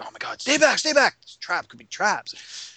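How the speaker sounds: high, mock-panicked warning; hammed-up panic. Game master playing up fear of a trapped crate, mock panic. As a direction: play up the alarm, high-pitched. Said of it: "I really played it up".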